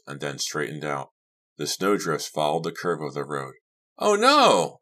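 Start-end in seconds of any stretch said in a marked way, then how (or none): 4.0-4.8 high, loud cry of dismay; alarmed cry. A narrator's reading. Girl seeing the road ahead, high alarmed cry. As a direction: cry out in shock, pitch soaring. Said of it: "I cried".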